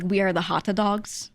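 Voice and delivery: English-accented take on the Japanese word. Shown as a demonstration. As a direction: say it with English pronunciation. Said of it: "say it with an English accent".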